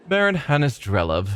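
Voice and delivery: Baron drawn out and leaned on, offhand; stress on Baron. A narrator's reading. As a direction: lean on "Baron" as he names himself. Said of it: "emphasizing the word Baron".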